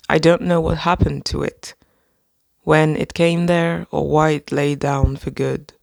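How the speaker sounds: measured, calm reading voice; poem reading. Acted. Reading a poem of the day to viewers, gentle. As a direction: read it gently and evenly. Reads Mary Oliver poem.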